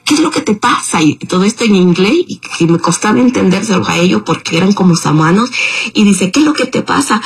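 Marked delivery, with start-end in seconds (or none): 0.0-1.0 high mock protest. Driver protesting, quoted. 6.3-7.2 high mock protest. Driver protesting, quoted.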